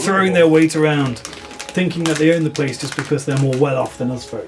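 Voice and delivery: a hint of an indignant common folk; villager NPC. Game master voices a villager.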